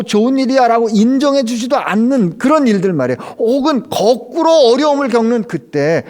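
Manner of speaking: high, loud preaching build; preaching at full force. Acted. Pastor urging the congregation, preaching at full force. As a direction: drive the point home to the pews.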